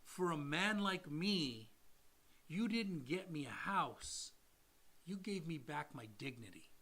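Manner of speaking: slow, measured, earnest confession; retold heartfelt sincerity. Client telling lender what the house meant, slow and heartfelt. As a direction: let each phrase land slowly, softening at the end.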